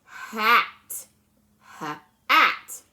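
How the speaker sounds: H split from at, then blended; H-, at split apart as a sound-out; blending sounds. Shown as a demonstration. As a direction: segment the onset then join it. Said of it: "let's blend that together".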